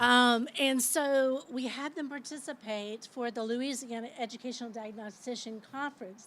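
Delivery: loud sharp classroom voice; teacher voice. Real, not acted. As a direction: project like addressing a classroom. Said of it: "I think I'm using my teacher voice".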